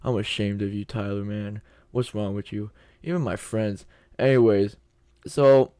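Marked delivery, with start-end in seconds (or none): 0.1-2.7 understated, quiet disappointment; mock disbelief. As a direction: mutedly imitate friends' shame. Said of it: "looking at me in, like, disbelief".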